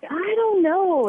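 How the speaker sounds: drawn-out doubtful I don't know, pitched high; unsure, slow and wary; skeptical hesitation. Retold or imitated. Husband doubting the radio business idea, slow skeptical hesitation.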